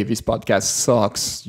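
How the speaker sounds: slow, understated blunt verdict; dismissive criticism, quoted. Retold or imitated. Imagined listener giving unhelpful feedback, mildly dismissive. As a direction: quote a bare put-down, drawn out. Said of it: "If you're gonna say".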